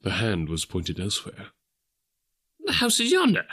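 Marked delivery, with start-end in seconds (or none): 2.6-3.5 put-on higher old Scrooge, lightly exclaiming; a touch of alarm; mild exclamation. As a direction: point it out, a little startled. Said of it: "Scrooge exclaimed".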